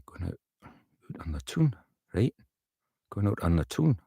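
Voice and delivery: practising a Geordie line; tentative Geordie lilt, tune rising at the end; Newcastle accent. Shown as a demonstration. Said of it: "Newcastle's an awfully difficult accent".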